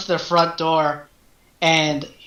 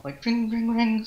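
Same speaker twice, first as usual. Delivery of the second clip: bell imitation; 5 semitones higher, 6 dB quieter than usual. Shown as a demonstration. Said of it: "like ringing of a bell".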